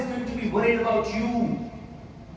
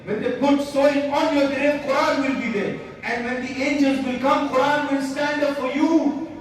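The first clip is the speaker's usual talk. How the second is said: impassioned preaching. Real, not acted. Preaches with rising force.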